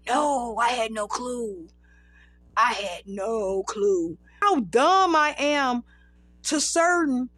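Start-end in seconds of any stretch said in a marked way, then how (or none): 0.1-4.2 slow, drawn-out disbelief; astonished denial. Retold or imitated. Performer telling Christine about not knowing, astonished. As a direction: stretch it out, retelling clueless astonishment.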